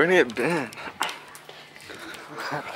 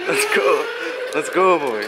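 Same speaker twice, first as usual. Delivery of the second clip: frat bro; 2 semitones higher, slower than usual. Real, not acted. Hyping a shot with friends.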